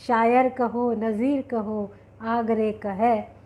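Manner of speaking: slow, lilting verse recital; poem recitation. Acted. Host quoting the poet to her audience, slowly recited. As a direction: recite it slowly, stretching the refrain.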